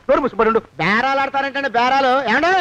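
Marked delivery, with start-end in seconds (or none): 2.3-2.5 sharp rising holler; calling out loudly. Acted. Blackmailer threatening to alert the searchers, calling out loudly. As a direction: shout out as a threat. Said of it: "అరవకురా".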